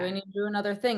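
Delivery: rushed, lightly acted objection; mock busy protest. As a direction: imitate a put-upon coworker, hurried and high. Imagined busy employee objecting.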